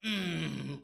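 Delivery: long wordless Chungcheong hum; acted Chungcheong "mmm", drawn out; Chungcheong driver's grunt. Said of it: "그거면 안 돼. 한마디면 안 돼".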